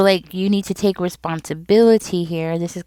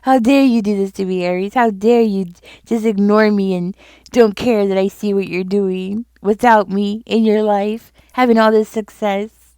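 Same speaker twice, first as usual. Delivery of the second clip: imitating an angry ex; 2 semitones higher, 4 dB louder than usual. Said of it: "They're getting even more mad".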